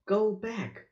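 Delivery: lightly voiced high parrot squawk. A narrator's reading. Parrot warning the children, lightly squawked. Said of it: "she squawked".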